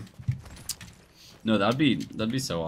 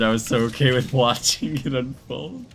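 loud laughing outburst; excited disbelief; 5 semitones higher, 8 dB louder than usual. Real, not acted. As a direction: shout it in amused disbelief.

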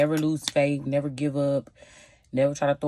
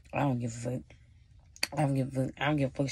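stubborn shrug; 5 dB quieter, faster than usual. Retold or imitated. A stubborn friend shrugs off an argument, quietly dismissive. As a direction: brush it off quietly, mock stubborn. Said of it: "people could be so stubborn".

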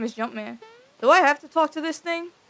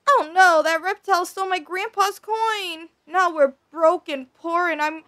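put-on lightly raised whiny kid voice; high voice for Mallow; 4 semitones higher than usual. Gamer voicing Mallow's lament, a lightly raised whine. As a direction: read it like a sad little kid.

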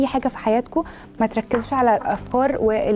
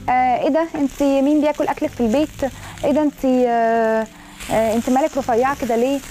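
mocking commenters. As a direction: mimic nosy people teasing a thin girl, half-hearted. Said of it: "الكومنتس اللذيذه قوي دي". (تقليد خفيف لتعليقات ساخرة)

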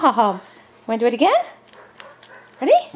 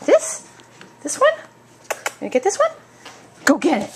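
pitched-up teasing question. Real, not acted. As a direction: tease the dog with the toy. Teasing dog with toy.

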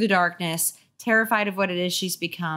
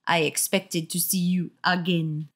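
put-on French accent. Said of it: "I can't do a French accent".

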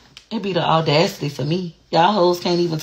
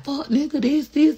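ghetto attitude; 11 semitones higher than usual. Retold or imitated. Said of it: "so ghetto, disrespectful".

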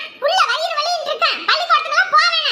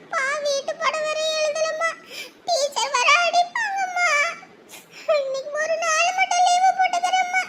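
fake crying; 4 dB quieter than usual. Child fakes crying to skip school.

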